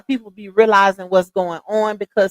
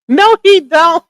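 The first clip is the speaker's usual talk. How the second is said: laughing; 7 semitones higher, 12 dB louder than usual. Real, not acted. Laughing at own joke about photo.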